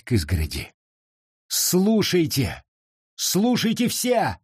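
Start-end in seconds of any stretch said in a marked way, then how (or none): 1.5-4.4 high, slow calling out; raised voice. A narrator's reading. Sarah appeals to the crowd at the fence, voice raised. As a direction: draw out the call, climbing in pitch. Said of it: "Возвысив голос".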